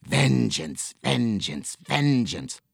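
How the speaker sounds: lightly voiced hissing villain chant; a touch of a menacing hiss on each word; hissing vengeance. A narrator's reading.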